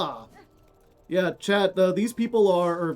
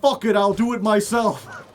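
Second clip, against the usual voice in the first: fed-up guy in back; 4 semitones higher, 5 dB louder than usual. Acted. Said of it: "that guy in the back's like".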